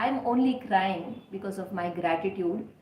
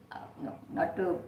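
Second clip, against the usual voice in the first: whisper; 3 semitones lower, 6 dB quieter than usual. Real, not acted. Catching himself mid aside.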